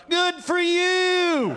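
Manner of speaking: high, slow shout; cheerful shout. Real, not acted. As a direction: call out to the crowd.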